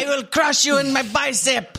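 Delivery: put-on Russian accent. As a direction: brag like a Russian strongman. Russian dad bragging.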